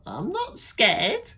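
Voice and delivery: high, slow, proud declaration; brave little child. Acted. Child insisting she's brave, high and slow. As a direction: puff up with bravado.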